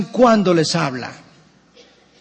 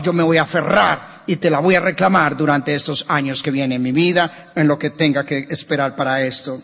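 prayer. Acted. Pastor praying to God during the sermon, earnest prayer. Prays over music.

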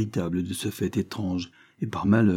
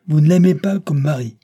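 higher, much louder yell; vociferating; 7 semitones higher, 9 dB louder than usual. A narrator's reading. Judge scolding his daughter, vociferous yell. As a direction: yell it in disbelief. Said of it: "vociféra le juge".

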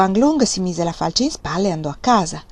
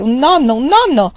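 put-on higher, louder gleeful old man; clucking voice; 5 semitones higher, 7 dB louder than usual. A narrator's reading. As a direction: repeat it, clucking with joy. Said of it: "con voce chiocciante".

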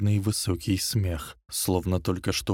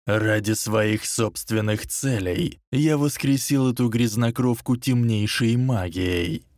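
amused Dark Lord; 3 semitones higher, 3 dB louder than usual. Acted. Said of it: "словно его что-то забавляло".

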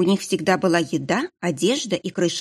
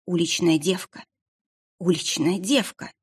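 distant flashback echo. Acted. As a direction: let the words ring like a far echo. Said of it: "эхом прозвучало в голове".

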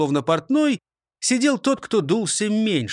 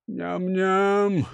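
licking lips; 3 semitones higher than usual. Acted. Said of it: "облизнулся Крендель".

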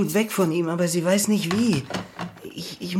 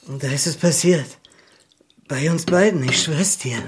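whispered. Acted. Confiding a secret to his sister.

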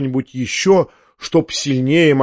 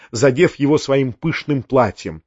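usual speaking voice

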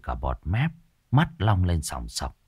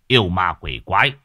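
commanding shout; 4 dB louder than usual. Acted. Exorcist confronts the ghosts.

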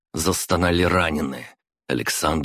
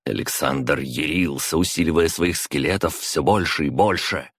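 plain reading voice

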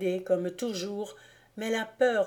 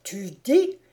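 a booming, much louder demand; thundering; 8 dB louder than usual. A narrator's reading. Teacher to trembling pupil, booming louder demand. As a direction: thunder the question at him. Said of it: "tonna le père Krauk".

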